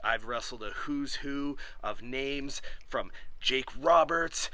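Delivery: gritty promo voice. Real, not acted. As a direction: growl it like a wrestling promo. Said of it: "you don't need that gritty voice".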